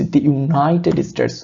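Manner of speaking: "দি" said as thee before "United". Shown as a demonstration. Teacher pointing out the thee before United. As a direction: say "দি United স্টেটস" with thee, not thuh. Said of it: "দি বলছি".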